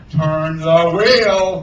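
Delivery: loud, very slow, drawn-out roar; roaring order. A narrator's reading. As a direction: roar it word by word at the mate. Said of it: "Hook roared".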